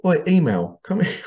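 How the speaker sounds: mock summons to a student; calling out.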